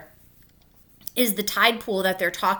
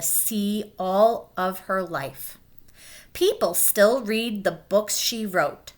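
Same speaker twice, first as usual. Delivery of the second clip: gentle read-aloud storytelling; clear, even picture-book narration; reading to children. A narrator's reading. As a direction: read it like story time for kids. Teacher reads picture book aloud.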